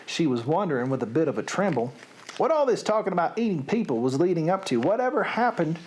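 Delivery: expressive, measured storybook read; story narration. A narrator's reading. Storyteller reading Sophie's capture to listeners, expressive narration. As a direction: read it like a lively tale.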